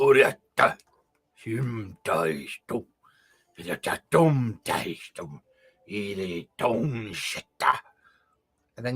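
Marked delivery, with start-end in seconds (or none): 0.0-7.8 harsh, deep-throated guttural voice, slow. Describing what the listener hears in a strange language, in a deep-throated voice. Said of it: "You hear deep throated".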